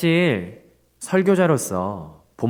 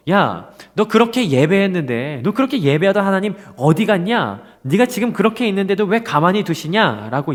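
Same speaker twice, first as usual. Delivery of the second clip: a mild mock sneer, pitched up; mocking taunt; 5 semitones higher than usual. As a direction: taunt him lightly, as the scoffers. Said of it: "사람들이 뭐라고 비방하냐면요".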